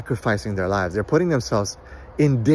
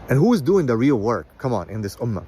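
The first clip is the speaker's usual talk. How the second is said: ordinary delivery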